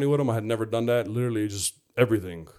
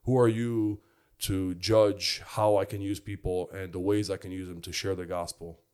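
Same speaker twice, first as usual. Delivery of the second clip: soft inner voice; 2 semitones lower than usual. Retold or imitated. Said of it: "just so softly".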